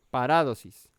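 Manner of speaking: "Parádosis" punched on RÁ, falling after; stress on second syllable. Shown as a demonstration. Preacher checking the accented syllable, stress on RÁ. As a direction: hit RÁ in "Parádosis" and let the rest drop. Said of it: "acento en la segunda sílaba".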